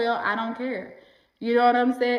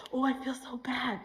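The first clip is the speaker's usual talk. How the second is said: much softer, small guilty voice; mock guilty; 8 dB quieter than usual. Voicing a viewer's guilt in a much softer, small voice. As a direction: shrink the voice, feeling bad.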